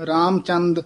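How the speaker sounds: ਰਾਮਚੰਦ, then a clear pause; pause after the word. Shown as a demonstration. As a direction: stop briefly after ਰਾਮਚੰਦ. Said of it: "ਪਦ ਤੇ ਵਿਸਰਾਮ ਲਾਉਣਾ ਹੈ". (ਰਾਮਚੰਦ ਤੋਂ ਬਾਅਦ ਵਿਸਰਾਮ)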